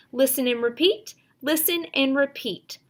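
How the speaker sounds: firm teacher chant; teacher cue. Shown as a demonstration. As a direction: signal the class to listen. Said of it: "Teacher says".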